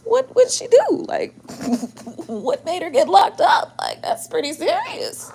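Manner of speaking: asking why she got locked up, shocked and high; retold shock. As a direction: replay your own jaw-drop reaction. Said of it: "I said".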